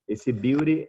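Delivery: "beauty" said as biw-ri with a tapped R. Shown as a demonstration. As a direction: model "beauty" with a tapped R in the middle. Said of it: "ele é quase que um R I". ("beauty" com som de R no meio)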